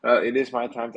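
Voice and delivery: words stretched by a yawn. Real, not acted. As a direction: talk through a yawn. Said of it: "Am I yawning too much".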